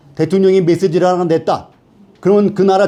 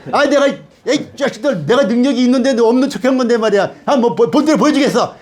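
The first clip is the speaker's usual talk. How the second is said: higher-pitched, indignant show-off retort; acted provoked boast; 5 semitones higher than usual. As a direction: imitate someone itching to prove his power. Preacher acts out a provoked boast. (발끈해서 높게 큰소리치는 흉내)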